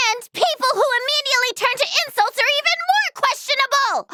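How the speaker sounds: high, indignant tirade; indignant confrontation. Acted. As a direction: stand up to them with rising indignation. Heated argument with an opponent.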